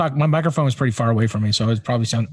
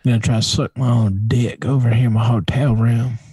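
hammed-up country accent; 3 semitones lower than usual. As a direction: joke in a country twang. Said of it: "why do you have a country accent".

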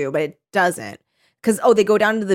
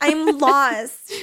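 put-on little lost girl; 6 semitones higher than usual. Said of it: "like, little lost girl".

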